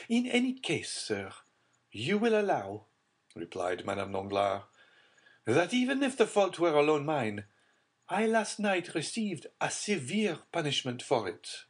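a hint of a hurt noblewoman; aggrieved lady. A narrator's reading. Madame Danglars voiced by narrator.

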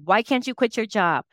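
a hint of an upset little boy begging; imitated crying child. Mother retelling her son's drop-off protest, imitated pleading. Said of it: "he's crying. He's like".

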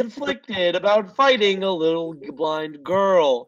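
boulder impression. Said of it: "You have a good boulder impression".

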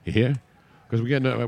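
lightly put-on Southern twang; playful Southern accent. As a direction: slip into a mock Southern accent. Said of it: "we're all going Southern now".

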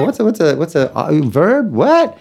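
rising, baffled stammer building to a high squeak; mock confused student. Teacher mimicking a confused pupil, baffled and rising. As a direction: play the lost student, pitch climbing on the last word.

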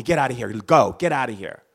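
angry shout. Retold or imitated. Attacker shouts mom away.

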